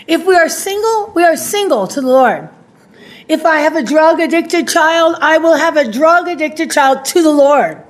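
rising declaration, then settling resolve; emphatic preaching. Real, not acted. Preacher declares every life state the Lord's, emphatic litany.

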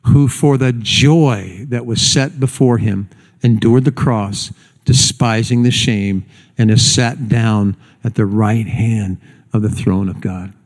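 slow, measured congregational reading; scripture reading. Acted. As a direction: read slowly so others can follow along. Leads congregation reading scripture aloud.

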